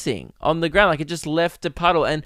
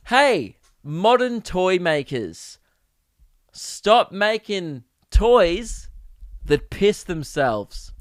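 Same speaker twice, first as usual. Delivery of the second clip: slow, deliberate mock address to toymakers; mock proclamation; 2 semitones higher, much slower than usual. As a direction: spell it out slowly like a public warning. Mock public demand to toymakers.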